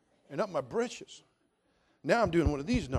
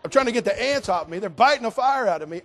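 mock frantic protest; 6 semitones higher, 9 dB louder than usual. Ants biting him, protesting.

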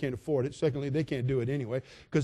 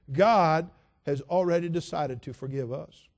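normal talking voice

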